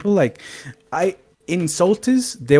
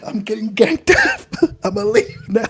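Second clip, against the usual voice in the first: mocking imitation.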